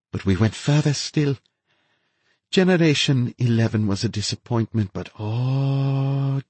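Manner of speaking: gleeful mad scientist boasting; ecstatic mad scientist. A narrator's reading. Narrator voices the infected woman.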